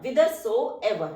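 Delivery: each syllable stretched very slowly; slow dictation. Shown as a demonstration. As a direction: say it slowly so students can write it. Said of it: "teacher dictates word slowly". (धीमा श्रुतलेख)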